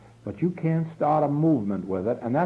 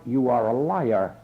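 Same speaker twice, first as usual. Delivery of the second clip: ordinary talk, nothing marked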